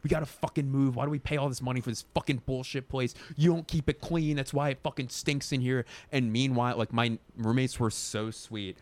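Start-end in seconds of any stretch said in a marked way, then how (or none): 0.0-5.9 mildly indignant retold rant, pitched up. Roommate griping at roommates about the bad smell, mock indignant. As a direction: imitate your own fed-up complaining. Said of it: "I was so indignant about it".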